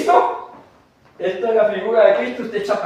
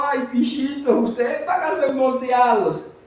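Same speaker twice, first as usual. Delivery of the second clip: softened tone; 3 semitones higher than usual. Retold or imitated. Paul softening his tone to the Galatians, tender. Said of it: "le baja el tono un poquito".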